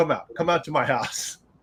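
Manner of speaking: put-on eager, excited wrestler voice. Retelling a phone call where the wrestler was so excited: imitating excited Mike Rapada. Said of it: "Mike was so freaking excited".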